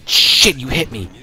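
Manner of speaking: high, loud outraged yelling; real shock at the crash, yelling. Real, not acted. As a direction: scream at the driver who hit you. Truck rams him in game.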